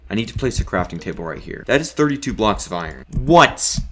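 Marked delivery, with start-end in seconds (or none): 3.1-3.8 surprised. Real, not acted. Shocked at iron count.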